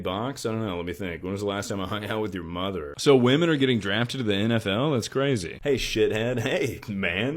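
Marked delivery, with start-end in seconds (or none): 5.6-6.4 aggressive. Pretend. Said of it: "that was a little aggressive".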